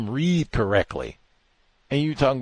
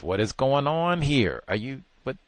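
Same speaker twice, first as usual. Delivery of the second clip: put-on confused boy voice; 4 semitones higher than usual. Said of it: "sounded like just confused".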